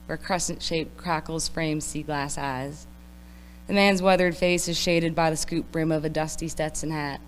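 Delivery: put-on poem read in a country accent; steady recital with a country twang. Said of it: "read this in a country accent".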